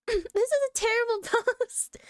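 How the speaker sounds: a laughing put-on British accent on "terrible post". Reading a Reddit post aloud in a mock British accent. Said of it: "slipping into a British accent".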